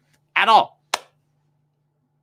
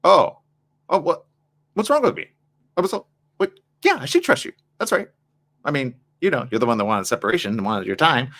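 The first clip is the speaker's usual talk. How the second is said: flustered partner. Retold or imitated. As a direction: sputter back in disbelief. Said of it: "the other person's like".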